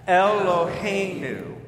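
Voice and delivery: Eloheinu as el-lo-HEY-nu, evenly spaced; teacher modelling Hebrew Eloheinu; four-syllable Eloheinu. Shown as a demonstration. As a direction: lead learners through Eloheinu's four syllables. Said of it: "Try that".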